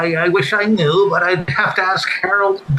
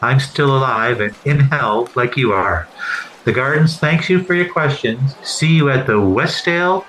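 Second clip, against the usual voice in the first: much lower, deadpan arena PA announcer; arena public address announcer reading the goal; Paul Morris impression; 7 semitones lower than usual. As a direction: announce it like the Gardens PA voice, lower and even. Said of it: "the darndest best announcer ever at Maple Leaf Gardens".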